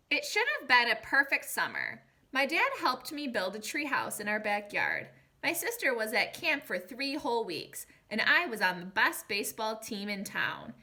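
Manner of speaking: storybook read-aloud to a class; gentle storybook telling for young listeners; reading to children. A narrator's reading. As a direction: read it like a picture book to kids.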